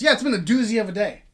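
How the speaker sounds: quick sarcastic line reading. Shown as a demonstration. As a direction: toss it off fast with sarcasm. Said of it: "No, it's very sarcastic".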